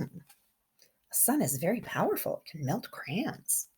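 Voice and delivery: hushed aside to the class; whisper. Shown as a demonstration. Teacher whispering a fact to the children. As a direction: lean in and whisper it.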